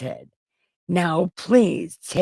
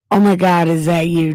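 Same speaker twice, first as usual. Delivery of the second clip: mock surprise; 7 dB louder, faster than usual. Saul recognizing David's voice.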